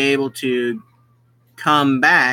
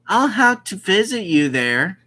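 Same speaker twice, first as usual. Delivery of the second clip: mom's voice; 4 semitones higher than usual. Acted. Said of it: "our mom says".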